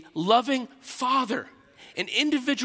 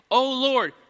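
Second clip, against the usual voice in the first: "Lord" pressed hard, louder and higher; emphatic O Lord; 4 semitones higher, 5 dB louder than usual. Shown as a demonstration. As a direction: cry out "O Lord" with weight. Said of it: "that's an emphatic".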